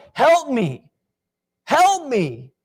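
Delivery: high-pitched pleading, voiced like the woman; desperate begging. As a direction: beg him, pitched high, for help. Woman begging Jesus for help.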